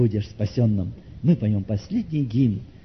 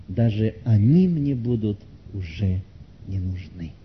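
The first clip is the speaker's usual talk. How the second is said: dying headmistress; 2 semitones lower than usual. Acted. Dying woman thanks visitor for Gospel and bouquet, subdued.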